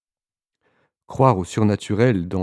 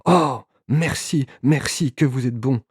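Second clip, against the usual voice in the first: higher and louder, slow, drawn-out thanks; grateful cry; 6 semitones higher, 3 dB louder, slower than usual. A narrator's reading. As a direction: cry out your relief, stretching the oh. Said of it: "Elle s'écria". (s'écrie, soulagée, d'une voix haute et lente)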